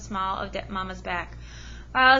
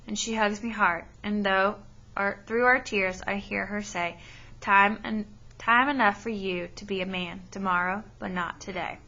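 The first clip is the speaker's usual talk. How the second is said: steady read-aloud storytelling to a class; story narration. Acted. Teacher reading a novel to her class, storytelling voice. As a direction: read the chapter to the students, even and clear.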